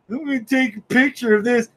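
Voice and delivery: a hint of smug sneer; lightly voiced smug Jimmy Olsen mocking everyone. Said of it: "smug look on his face going".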